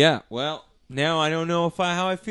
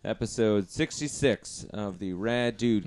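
impression; 4 dB quieter than usual. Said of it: "deviously impersonating me".

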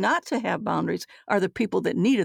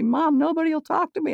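higher, a touch louder complaint; whiny teen daughter; 9 semitones higher, 3 dB louder than usual. Retold or imitated. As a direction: whine it like a sulky teen.

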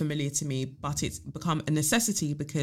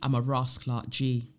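calm affirmation; 4 semitones lower than usual. Shown as a demonstration. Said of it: "say to yourself".

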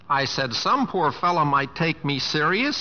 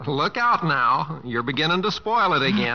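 laughing tease. Acted. Husband teasing his wife through a laugh. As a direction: laugh it out gently.

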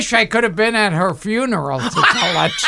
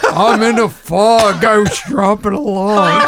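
George Burns voice; 3 dB louder than usual. Retold or imitated. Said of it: "George Burns via Jerry Seinfeld".

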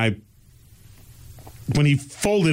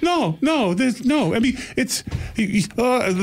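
flustered Scottish granny, pitched higher; mock Scottish accent; 12 semitones higher, slower than usual. Scottish grandma fumbles for a reply, higher light Scottish accent. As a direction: stammer like a prim old Scottish lady. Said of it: "she had a really strong Scottish accent".

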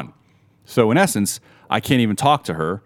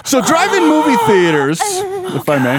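laughing while talking; 5 dB louder, slower than usual. Real, not acted. Joking aside, cracking up.

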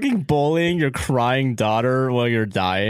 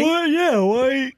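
incredulous high question; 13 semitones higher, much slower than usual. Real, not acted. Incredulous reaction.

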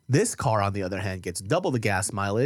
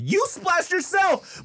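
much higher, very slow, drawn-out retort; exasperated reply; 4 dB louder, much slower than usual. Retold or imitated. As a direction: stretch it out, incredulous at the kid. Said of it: "And I'm like".

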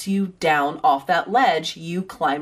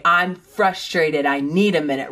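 coached calm phrase; 3 semitones lower than usual. Shown as a demonstration. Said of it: "You should say".

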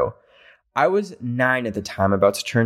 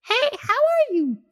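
nervous blurt. Retold or imitated. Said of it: "I straight up said".

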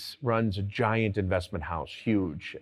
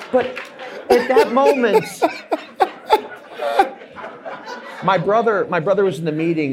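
loud words pushed out through laughter; laughing while talking; 9 semitones higher, 7 dB louder than usual. Real, not acted. Still laughing as he tells the host the story. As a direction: keep laughing as you tell it.

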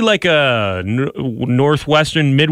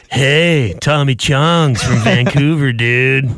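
mock laid-back West Coast dude; West Coast accent; 3 semitones lower, slower than usual. Shown as a demonstration. Host imitating a Vancouver local, stoner-like West Coast accent. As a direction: play a mellow Vancouver stoner. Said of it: "they talk like this".

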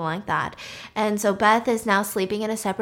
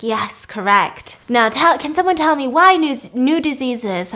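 stern teacher dad; 3 semitones higher, 5 dB louder than usual. Retold or imitated. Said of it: "he's like".

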